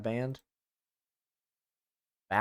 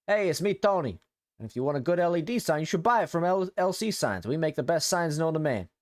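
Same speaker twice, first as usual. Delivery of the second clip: lightly goofy ad-reader voice, a touch higher; 4 semitones higher, 3 dB louder than usual. Acted. Reading a viewer's message in a goofy voice. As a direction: ham up a cheesy sponsor read. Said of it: "I'm gonna read this in a, in a goofy voice".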